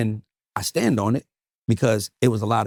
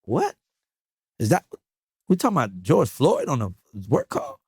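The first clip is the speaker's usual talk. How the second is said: shocked they'd bring it up on a work call; stunned disbelief; 2 semitones higher than usual. Retold or imitated. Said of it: "And I'm like".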